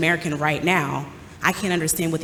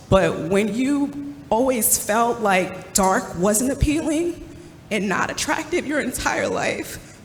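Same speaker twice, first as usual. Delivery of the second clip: higher, strained voice close to tears; fighting back tears as she speaks; voice breaking; 5 semitones higher, slower than usual. Real, not acted. Mother recalling feeling unattractive, voice breaking with real tears.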